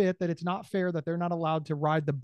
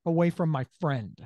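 firm threat. Retold or imitated. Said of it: "you can say".

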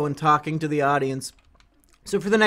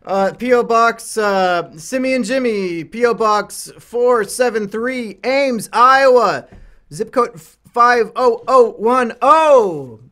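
slow, deliberate, louder address read; announcing address; 6 semitones higher, 9 dB louder, much slower than usual. Acted. Host reading the P O box to viewers, slow and loud. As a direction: spell it out slowly for the audience.

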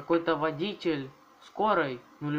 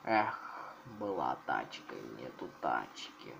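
mock lament; 13 semitones lower, 7 dB quieter than usual. Real, not acted. Mourning destroyed car.

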